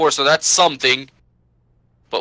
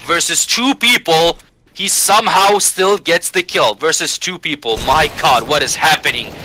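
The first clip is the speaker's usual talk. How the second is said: excited; 3 semitones higher, 4 dB louder than usual. Real, not acted. Surprising kill called.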